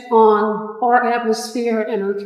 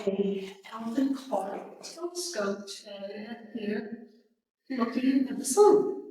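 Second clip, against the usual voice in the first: quiet voice; 7 dB quieter than usual. Real, not acted. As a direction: speak softly, barely projecting. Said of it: "she's not very loud".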